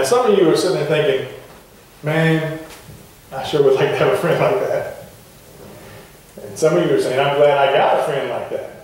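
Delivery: ordinary talk, nothing marked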